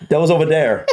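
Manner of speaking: light go at an Irish accent, D for TH. Shown as a demonstration. Husband admitting he would butcher it, light Irish accent. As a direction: attempt Irish "doze over dere", half laughing. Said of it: "coming from an Irish accent".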